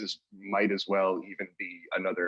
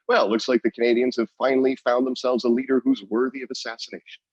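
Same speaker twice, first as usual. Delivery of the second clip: louder, higher quoted jibe with a sneer; 4 semitones higher, 5 dB louder than usual. Retold or imitated. Quoting a famous insult to Canada, sneering. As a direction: deliver the insult like a scornful put-down. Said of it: "Somebody once sneered".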